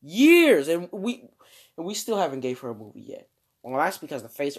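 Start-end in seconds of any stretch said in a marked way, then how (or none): 0.0-0.7 high, loud "Years", falling sharply; exasperated wail. Pretend. Host repeating how long she has waited, exasperated. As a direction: punch "Years" out in mock outrage. Comic repeated complaint about the wait.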